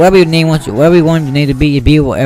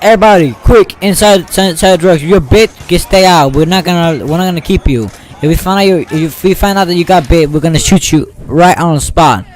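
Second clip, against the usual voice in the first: army soldier orders; 4 semitones higher than usual. Pretend. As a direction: order everyone inside urgently. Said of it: "And he's like".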